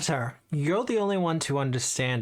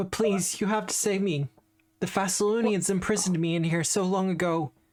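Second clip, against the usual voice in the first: pained voice, wracked with suffering; 3 semitones higher than usual. An imprisoned voice begs the noble souls to save it, in pain and suffering. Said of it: "genuinely in pain and suffering".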